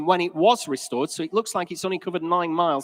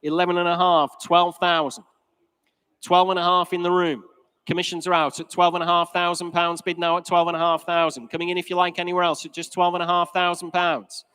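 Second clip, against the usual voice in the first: fine art auctioneer. Real, not acted. Auctioneer calling bids.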